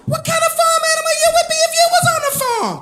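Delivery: mock gay guy voice. Overheard guy asking his friend, high camp voice. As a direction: ask it high and playful.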